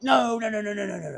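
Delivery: high panicked run of repeats; mock wigging out. Man as the driver opens his door, mock wigging out. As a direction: imitate a man backing down in a high voice. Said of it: "he starts wigging out".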